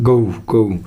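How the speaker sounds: "गऊ" with a schwa-to-u glide; British-style diphthong "गऊ"; correct pronunciation. Shown as a demonstration. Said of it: "गऊ होता है".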